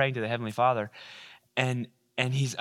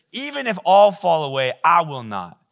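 bold declaration; 2 semitones higher, 7 dB louder than usual. Acted. Peter boasting to Jesus.

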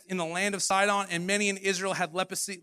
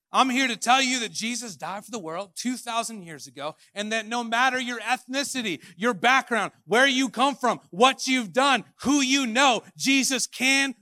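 higher and louder, rising to full force; building preaching; 4 semitones higher, 6 dB louder than usual. Shown as a demonstration. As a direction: build each phrase until you're preaching at full voice. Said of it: "I'll run that back".

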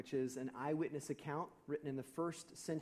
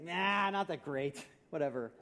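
snarky; 3 dB louder than usual. Retold or imitated. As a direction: drag out a mock dismissive reply. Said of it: "I was feeling a smidge snarky".

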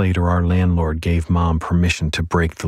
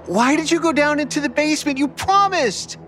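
high, strained call downward. Acted. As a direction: shout down through the floor. Boy calls to girl below.

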